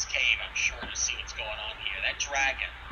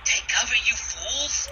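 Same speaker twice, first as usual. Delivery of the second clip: raised, urgent gravelly warning; low gravel vigilante growl; 10 semitones higher, 6 dB louder, slower than usual. Acted. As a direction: bark it out from cover. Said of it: "a gravelly voice hisses".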